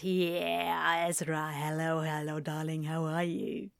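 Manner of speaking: pompous, open American greeting; lightly pompous darling-hello in natural pitch; broad, self-important and drawn together; Gabriel. Shown as a demonstration. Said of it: "Just more pompous and open".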